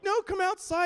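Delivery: high, loud insistence; insistent call. Retold or imitated. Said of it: "I'm like".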